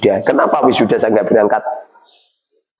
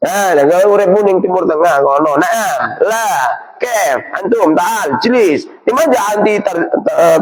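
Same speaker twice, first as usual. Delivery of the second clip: higher, show-off Arabic chatter; mocking mimicry; 5 semitones higher than usual. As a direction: lightly parody someone showing off Arabic. (menirukan orang sok berbahasa Arab)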